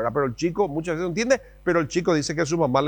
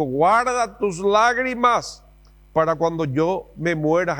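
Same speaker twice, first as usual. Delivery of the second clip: hammed-up stern mom; dramatic mom; 3 semitones higher, much slower than usual. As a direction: snap back like a martyred mother. Mom's retort, acted.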